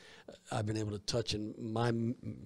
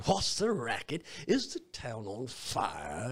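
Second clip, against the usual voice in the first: Scrooge; slower than usual. Retold or imitated. Acting Scrooge lines in show.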